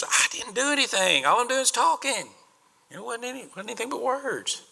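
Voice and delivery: high-pitched innocent excuse; whiny kid brother. Retold or imitated. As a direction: plead innocence like a little brother. David's excuse voiced.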